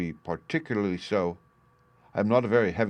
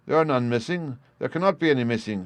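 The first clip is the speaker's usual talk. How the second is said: higher, raised protest; heated denial; 5 semitones higher than usual. Acted. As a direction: insist on innocence. Son denies theft heatedly.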